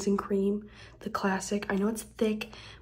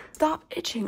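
frustrated pleading; 7 semitones higher than usual. Real, not acted. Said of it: "Ah, God, I'm itching".

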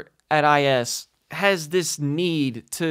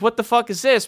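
mock disbelief; 9 semitones higher than usual. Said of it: "I was like".

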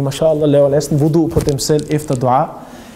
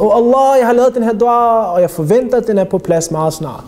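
mock arrogant prayer; 2 semitones higher than usual. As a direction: imitate someone presumptuously placing an order with God. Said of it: "lad være med at være arrogant og så sige".

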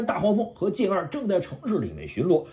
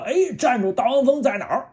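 calling out; 7 semitones higher than usual. Acted. Autobots arrive calling out.

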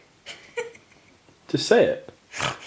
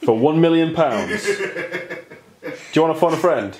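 slow, drawn-out game-show questioning; mock quiz host; slower than usual. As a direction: tease like a suspense-building quiz host. Mimics quiz show host, teasing.

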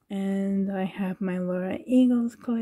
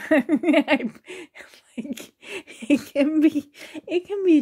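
higher, choked and whispery; holding back tears; 6 semitones higher, 3 dB louder than usual. Real, not acted. Sensitive vlogger recalls confronting someone, trying not to cry. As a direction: push slow words out through real tears. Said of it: "Trying, trying not to cry".

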